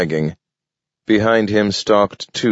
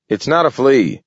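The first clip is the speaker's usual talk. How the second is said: indignant anger; 7 semitones higher than usual. A narrator's reading. Raccoon protesting to the wardens, indignantly angry. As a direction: bristle and protest hotly. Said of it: "puffing up in anger".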